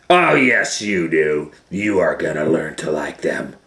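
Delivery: stern teacher insisting; insistent gorilla. Acted. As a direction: lay down the law.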